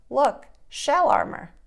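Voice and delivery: proud. Acted. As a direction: show it off with pride. Turtle shows off proudly.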